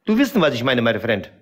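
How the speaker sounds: put-on heavy foreign accent, broken grammar; broken-German accent. Character answering the interviewer in broken accented German. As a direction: play a Kurdish immigrant in broken German.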